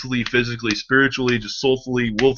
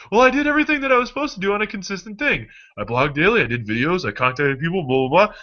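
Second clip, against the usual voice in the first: a hint of a successful friend; 9 semitones higher than usual. Successful person's answer voiced.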